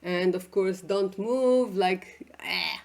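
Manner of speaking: slumped, limp delivery; mock slouching candidate. Shown as a demonstration. A slouching candidate at an interview, limply played. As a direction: act out a slouched nervous interviewee. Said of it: "sitting like this".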